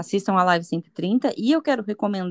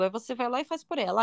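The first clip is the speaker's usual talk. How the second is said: ordinary talk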